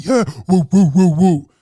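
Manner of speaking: loud, high mock whooping; hammed-up office cheer; cheering crowd. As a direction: whoop like a pumped-up sales floor. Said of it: "everybody is like".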